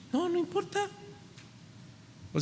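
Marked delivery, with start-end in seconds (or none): 0.1-0.9 much higher, soft little answer; soft higher-pitched wife voice; high mock reply. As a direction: pipe it up lightly like a wife.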